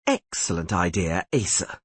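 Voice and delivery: slow mocking sneer; lightly voiced sneer at a bad idea. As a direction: drag out the sarcasm. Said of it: "sneered Missel".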